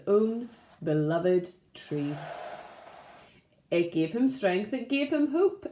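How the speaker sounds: gentle, steady storybook narration; reading to children. A narrator's reading. Teacher reading a story to Primary One, gentle storytelling. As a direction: tell it like a picture book at story time.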